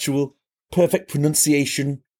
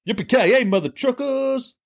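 excited whoop; 12 semitones higher than usual. Acted. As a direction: holler it with glee. Excited whoop after good news.

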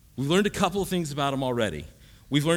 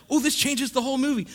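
mind-blown realization; 10 semitones higher than usual. Retold or imitated.

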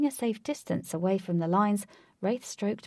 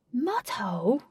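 "Mudhole?" higher, rising at the end; questioning; 5 semitones higher, slower than usual. A narrator's reading. Lynx querying Ajax's meeting place, "Mudhole?" questioning and rising. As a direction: lift "Mudhole?" into a puzzled question. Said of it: "questioned Lynx".

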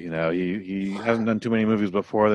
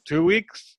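mock incredulous; 10 semitones higher than usual. Rebel haggles after a killing.

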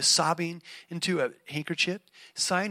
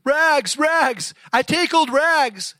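high, loud, slow wailing call; crying out; 10 semitones higher, 12 dB louder, much slower than usual. Acted. Bleeding ragman crying out his wares, loud wail. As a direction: cry it out through the pain. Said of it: "cried the sobbing".

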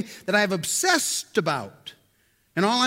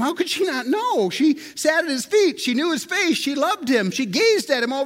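incredulous; 4 semitones higher than usual. Real, not acted. Incredulous rhetorical questions.

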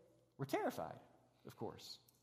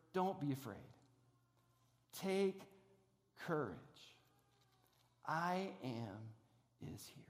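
much softer and lower, ending in a whisper; tender whisper; 6 semitones lower, 8 dB quieter, slower than usual. Acted. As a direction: speak it to one frightened listener. Preacher voices Jesus to the hearer.

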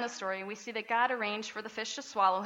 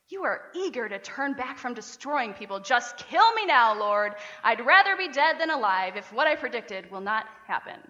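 whiny angry Jonah; 4 dB louder than usual. Retold or imitated. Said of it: "Can you just hear him saying this".

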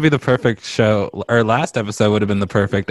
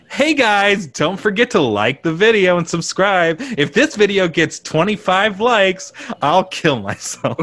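high, stretched-out parody vlogger pitch; hacky YouTuber; 9 semitones higher, slower than usual. Retold or imitated. Host parodying the YouTube hack, high vlogger voice. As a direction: plug it like a hack influencer. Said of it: "the YouTube hack, which is like".

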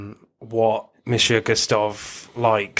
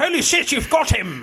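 excited exclamation. Retold or imitated. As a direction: yelp it out like the big moment just landed. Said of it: "He says".

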